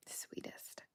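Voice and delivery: barely voiced echo of sweetest; whisper. Real, not acted. Echoing praise of Sarah in a near-silent whisper. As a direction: breathe the word sweetest almost silently. Echoed under her breath.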